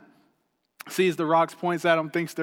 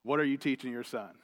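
quiet inner voice; 4 semitones lower, 7 dB quieter, faster than usual. Retold or imitated. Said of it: "God just pounded on my heart".

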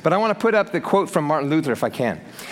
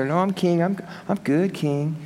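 mock-timid, nice little reply; meek pushover; 3 dB quieter than usual. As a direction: play a mild little pushover Christian. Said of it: "little pushover Christian and give a nice little answer".

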